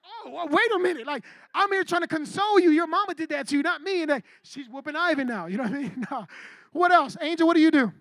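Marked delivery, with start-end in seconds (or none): 0.1-4.0 pitched-up, acted indignant pleading; defensive protest. Boyfriend trying to console her and getting blamed, mock defensive protest. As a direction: play the wrongly blamed boyfriend.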